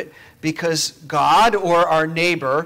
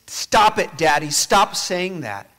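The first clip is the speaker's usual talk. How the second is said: put-on a touch of an upset boy, louder; upset child; 3 semitones higher, 6 dB louder, slower than usual. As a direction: push back like a child who can't take it. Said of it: "he says".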